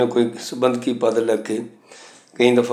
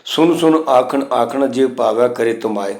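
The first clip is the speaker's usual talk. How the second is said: gurbani recitation. Shown as a demonstration. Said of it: "ਸਿਆਰੀਆਂ ਨੇ".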